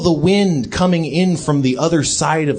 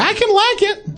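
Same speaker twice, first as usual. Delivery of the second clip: put-on robot baby voice.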